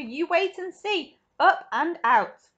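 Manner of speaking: slow, loud, drawn-out promise; gleeful anticipation. A narrator's reading. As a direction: savour each word triumphantly. Wonka gleefully announces launch.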